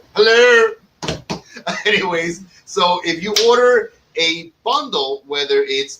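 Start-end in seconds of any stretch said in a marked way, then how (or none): 0.1-1.4 loud, high showman hello; shouted greeting. Pretend. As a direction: shout it like a host. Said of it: "I was practicing on the way".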